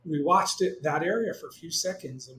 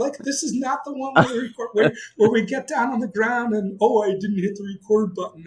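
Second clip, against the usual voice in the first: loud, high, worked-up yell at a partner; retold excited yelling; 8 semitones higher, 7 dB louder than usual. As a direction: re-enact yelling over the stakes, high and loud. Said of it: "I'm, like, yelling at my partner".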